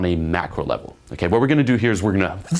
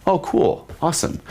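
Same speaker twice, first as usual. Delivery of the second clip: mock bored girl, higher voice; blasé; 6 semitones higher than usual. Shown as a demonstration. Girl shows polite blasé interest, mock bored. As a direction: fake interest, high and hollow. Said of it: "blasé".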